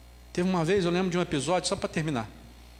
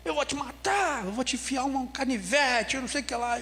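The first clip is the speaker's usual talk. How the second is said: higher, menacing voiced threat from a classmate; schoolboy's threat; 6 semitones higher than usual. Boy in class threatens the preacher, mock menacing. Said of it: "Assim mesmo".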